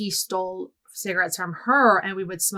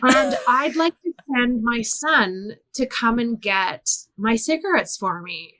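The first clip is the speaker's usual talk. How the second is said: lightly voiced British caller; a child's attempt at sounding British; put-on British accent. Caller asking to send a son for cigarettes, put-on British accent. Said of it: "I put on a British accent".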